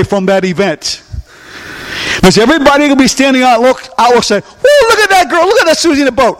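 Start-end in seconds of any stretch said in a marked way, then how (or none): 4.4-6.4 high, far-off gawking bystander voice; mocking onlooker. Pastor voicing gawkers watching a boat drift toward the falls, high and excited. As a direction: cry out like a gawker on the riverbank.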